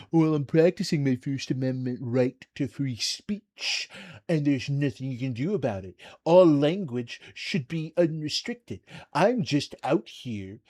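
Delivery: lightly imitating a smug Southern racist; Southern accent, half-hearted mockery; mock southern twang. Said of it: "he said it with a southern twang".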